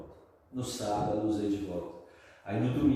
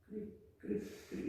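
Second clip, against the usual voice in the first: small, soft high cricket chirp; tiny mimed "cri, cri"; 11 semitones higher, 12 dB quieter, slower than usual. Retold or imitated. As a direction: chirp quietly like crickets in an awkward silence. Imitates crickets of awkward silence.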